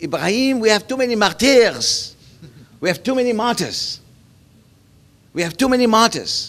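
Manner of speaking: put-on French-tinged Egyptian accent. Quoting a mentor's repeated saying: imitating Fatih Usman's French Egyptian accent. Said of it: "He used to say it in his very kind of franc-, francophone".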